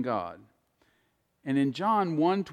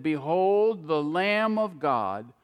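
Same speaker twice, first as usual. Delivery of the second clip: solemn true version; slower than usual. Shown as a demonstration. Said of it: "He said".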